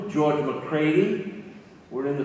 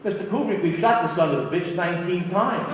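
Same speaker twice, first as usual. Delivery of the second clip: louder, higher exasperation with a laugh breaking through; exasperated complaint; 4 semitones higher, 5 dB louder than usual. Retold or imitated. Actor complaining to the director about retakes, laughing and exasperated. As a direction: throw up your hands at nineteen takes, half laughing. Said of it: "he was getting mad".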